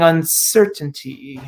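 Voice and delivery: slow, hissed through the teeth; drawn-out hiss. Acted. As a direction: let the last word hiss out slowly. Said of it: "That last word stretched into a drawn-out hiss through his teeth".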